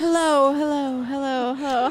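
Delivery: hello repeated, fading like an echo; echo effect. Shown as a demonstration. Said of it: "purposely make it echo".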